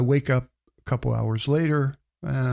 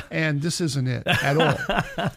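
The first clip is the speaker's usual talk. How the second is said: laughing; 3 semitones higher, slower than usual. Retold or imitated. Punchline of his near-death joke.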